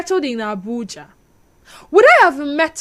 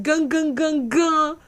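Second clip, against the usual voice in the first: imitated film music; 3 semitones higher, 3 dB quieter, slower than usual. Imitates Indian film dramatic music.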